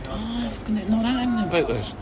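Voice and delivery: imitated little moment of discovery; retold realisation. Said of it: "that I was like".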